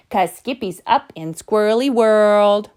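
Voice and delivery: lightly lilting sisterly tease; mild singsong. Acted. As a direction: chant it like a little sister. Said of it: "sang his sisters".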